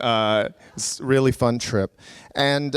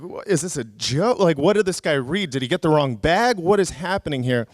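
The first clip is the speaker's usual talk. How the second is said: mildly panicked retelling, pitch raised; freaking out; 4 semitones higher than usual. Retold or imitated. Traveler baffled by the guard's accusation, acting out mild panic. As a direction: rattle off bewildered questions in mock alarm. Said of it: "so I'm freaking out".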